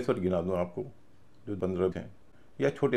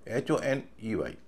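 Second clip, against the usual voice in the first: letters spaced out, slow and even; slow spelling; slower than usual. Shown as a demonstration. Teacher spells honey slowly, all letters together. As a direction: spell एच ओ एन ई वाई slowly as one run. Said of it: "इसमें ओ का उच्चारण अ हो रहा है".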